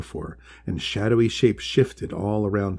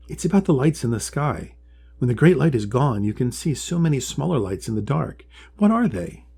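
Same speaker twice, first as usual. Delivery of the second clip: higher, eager little turtle voice; curious young Polly; 4 semitones higher, 3 dB louder than usual. Acted. Polly asking the wise one about the two feet, high and curious. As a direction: ask it wide-eyed and hopeful.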